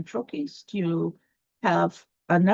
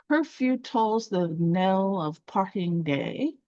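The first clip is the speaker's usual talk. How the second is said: slow, measured poetry line; iambic verse line; slower than usual. Shown as a demonstration. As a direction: recite it slowly as iambic pentameter. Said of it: "is a line of iambic pentameter".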